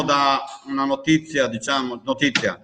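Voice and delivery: muffled behind a mask; speaking through a cloth mask; through a face mask. Real, not acted. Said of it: "Io mi scuso per la mascherina".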